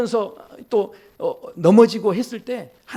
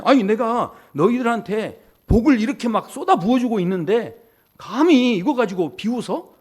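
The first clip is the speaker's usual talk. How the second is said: higher-pitched, hammed-up offended outburst; mock indignation; 4 semitones higher than usual. Imagined God scolding people who laughed at his blessing, mock indignant. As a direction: act affronted, dragging out the end.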